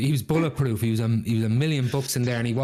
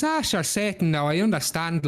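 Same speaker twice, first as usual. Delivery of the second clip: higher, lilting appeal; pleading Jack; 5 semitones higher than usual. Acted. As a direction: sweet-talk the devil.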